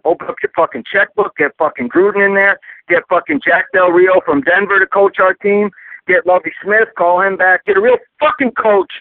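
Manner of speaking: demanding a new coach, worked up; fed-up fan ranting, voice climbing; angry rant. Real, not acted. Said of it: "I'm so fucking angry".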